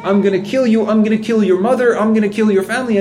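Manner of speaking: mock the angry driver's rant in a high voice; retold yelling. Preacher retelling a furious driver's insults, high mock yell. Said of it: "she started saying".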